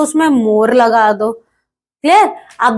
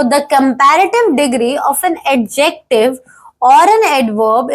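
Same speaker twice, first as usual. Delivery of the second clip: slow dictation; much slower than usual. Shown as a demonstration. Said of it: "reading the definition slowly".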